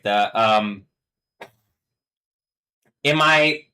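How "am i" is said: breaks into a high laugh; cracking up mid-question. Real, not acted. Streamer cracking up at his own joke, laughing.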